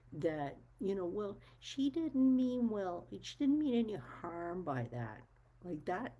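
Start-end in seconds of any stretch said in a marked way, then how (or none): 1.1-5.2 higher, louder and slow on the first part, with didn't drawn out; mocking the excuse. Mocking the excuses people make for disrespect, sneering. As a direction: parrot the lame excuse with a sneer.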